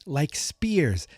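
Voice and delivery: slow solemn kung fu voice; martial arts master. Retold or imitated. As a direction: intone it like a sensei. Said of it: "He's like".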